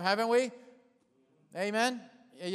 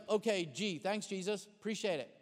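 sarcastic thanks; 2 semitones lower, 7 dB quieter than usual. Acted. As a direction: mutter a deadpan, reluctant thank-you. Mock reply of reluctant disciple.

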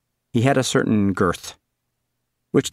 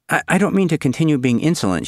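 put-on high girl's voice; 7 semitones higher than usual. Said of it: "she said".

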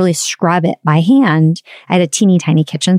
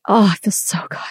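breathy whispered relief; relieved whisper; 5 dB quieter, faster than usual. Retold or imitated. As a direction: sigh it out in a whisper, finally relaxed. Relief after kitchen clean.

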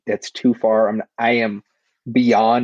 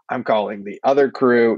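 normal talking voice

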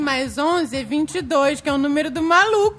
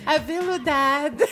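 velvet voice; 2 semitones lower than usual. Pretend. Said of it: "Vou fazer uma voz de veludo".

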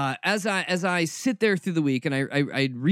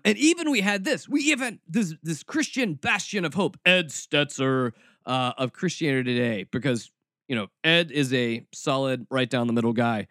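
sarcastic. Acted. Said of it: "Read sarcasm in my voice as I'm saying this".

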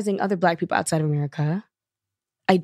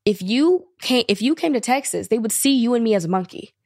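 retold upset woman; 3 semitones higher than usual. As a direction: imitate her upset, weighting the words. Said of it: "viscerally upset".

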